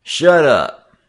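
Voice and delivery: loud, high, sharp order; snapped command from the leader; authoritative snap. A narrator's reading. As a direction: silence the gang at once. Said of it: "their leader snapped authoritatively".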